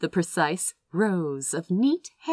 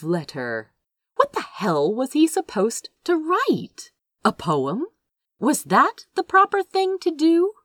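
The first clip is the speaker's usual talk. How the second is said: higher and louder, flustered and alarmed; rising panic; 7 semitones higher, 4 dB louder than usual. A narrator's reading. Crow panicking over writing a love letter, flustered and loud. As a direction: let the worry spiral up as he panics.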